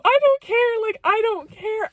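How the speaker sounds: very high, squealed outburst; elated insistence. Retold or imitated. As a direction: squeal it, thrilled beyond caring. Overjoyed dismissal of house being dated.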